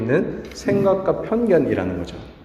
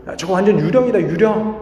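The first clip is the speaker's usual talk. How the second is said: mildly alarmed cry, pitched higher; startled disciples; 5 semitones higher than usual. Retold or imitated. Frightened disciples spotting a figure on the water, mock startled. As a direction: imitate a startled reaction without shouting. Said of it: "사람들이 깜짝 놀라가지고".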